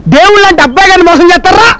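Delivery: high-pitched, hammed-up indignation; overacted outrage. Sidekick scolds cheats for his boss, overacting. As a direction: overdo the scolding on the boss's behalf. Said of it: "over acting చేయకు".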